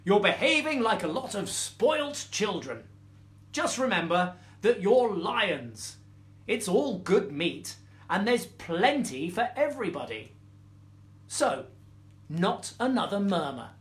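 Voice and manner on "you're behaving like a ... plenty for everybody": scolding mother lioness. Acted. Lioness scolds her cubs.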